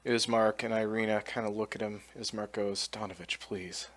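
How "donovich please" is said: soft, low entreaty; quiet plea. Acted. Ismark begging Donovich to act, hushed plea. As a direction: plead under the voice, very softly.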